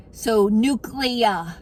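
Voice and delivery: slow careful nuclear, new-klee-er; correct pronunciation. Shown as a demonstration. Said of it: "it's nuclear".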